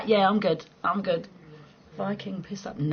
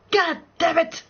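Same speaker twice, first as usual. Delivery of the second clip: mock annoyed; 9 semitones higher, 5 dB louder, slower than usual. Angry at windblown hair.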